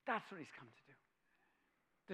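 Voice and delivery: slow fading repeat; hushed, slow. Real, not acted. Preacher repeating Christ's purpose, slow and hushed. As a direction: let it die away slowly.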